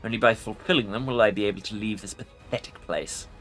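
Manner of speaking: low growling lich; growling undead king. Acted. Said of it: "A low growl escapes the Lich".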